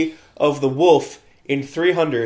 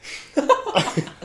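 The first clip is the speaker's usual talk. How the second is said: sneezing; 11 semitones higher, 3 dB quieter than usual. Real, not acted. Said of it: "The sneezes again".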